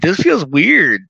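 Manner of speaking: high, slow, puzzled complaint; a lightly voiced spaced-out self. Retelling the shroom moment, high slow puzzlement. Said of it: "I'm like".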